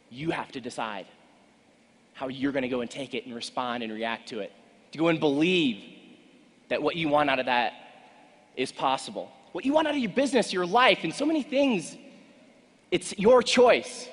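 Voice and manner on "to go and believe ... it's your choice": loud, high, rising to a climax; booming motivational speech. Acted. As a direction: hammer it home to the crowd.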